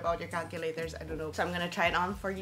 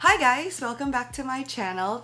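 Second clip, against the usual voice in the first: high, bright channel greeting; chirpy vlog intro; 5 semitones higher, 8 dB louder than usual. Shown as a demonstration. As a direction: welcome viewers with big energy. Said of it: "I cannot do this".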